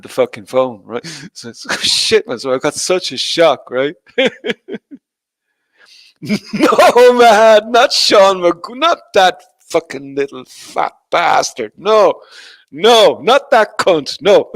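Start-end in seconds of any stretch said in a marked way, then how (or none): 6.2-14.5 high, loud, drawn-out protest; mock outrage. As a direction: refuse the name in hammed-up horror. Mock outrage at friend's name.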